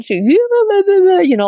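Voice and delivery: high, loud wordless mocking babble; exaggerated high-pitched mimicry; mimicking. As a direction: squeal out a drawn-out mimicking babble. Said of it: "like, mimicking me".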